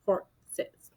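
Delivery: slow, drawn-out silly voice; a goofy voice while doing the transfer; odd put-on voice. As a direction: stretch it out in a goofy way. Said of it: "I don't know why I'm talking like that".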